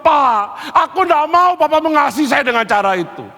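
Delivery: high-pitched, impassioned objection; emphatic protest. Acted. Son refusing Papa's way of loving, emphatic protest. Son's acted protest to father.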